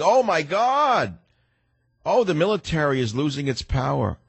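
high, slow, hammed-up wail of alarm; mock a panicking official, stretching it out high; mock panicked scream. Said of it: "his stooge Hagel is screaming".

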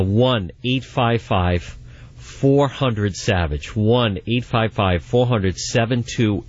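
slow, deliberate number read; phone number read. Acted. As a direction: read the number out slowly for listeners. Host reads call-in number.

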